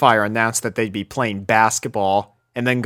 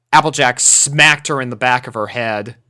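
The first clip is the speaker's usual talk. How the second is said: ordinary delivery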